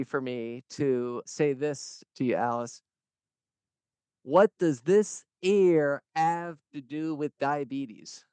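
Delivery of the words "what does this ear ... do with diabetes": slow, hammy pirate drawl; bad pirate voice. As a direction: lay on a clumsy pirate voice. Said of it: "That's a terrible pirate".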